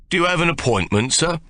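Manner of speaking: a lightly voiced superior doorman; imperious doorman. A narrator's reading. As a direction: look down your nose at him. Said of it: "somewhat imperiously".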